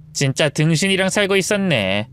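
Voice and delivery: lightly voiced sneering mistress; mocking mistress. Mistress mocks the wife in front of the husband, sneering. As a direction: taunt her with mild scorn. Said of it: "낄낄 웃으며 입을 열었습니다".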